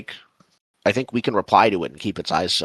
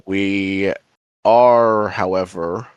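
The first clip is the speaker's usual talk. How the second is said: lightly acted, measured reply to a spirit; halting, formal in-character answer; slower than usual. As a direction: address the spirit deliberately, with long pauses. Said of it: "he'll say".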